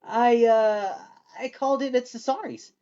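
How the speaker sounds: Michael admitting where he bought the cake, sheepish. A narrator's reading. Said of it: "in a sheepish, self-conscious way".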